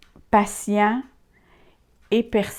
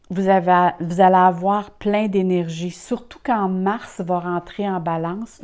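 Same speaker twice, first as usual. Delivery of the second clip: speaking with a dry mouth; 5 dB louder than usual. Real, not acted. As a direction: mouth dry from talking a long time. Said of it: "On vient beaucoup la bouche sèche".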